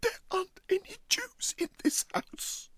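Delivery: high, strangled gasping cry; gasped out. Acted. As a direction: force the words out in panic. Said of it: "he managed to gasp out".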